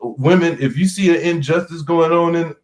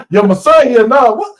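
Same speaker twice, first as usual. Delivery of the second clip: high-pitched, fast mock challenge; riled-up old dad; 10 semitones higher, 4 dB louder than usual. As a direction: needle him like a cocky old gambler. Dad challenging at poker game.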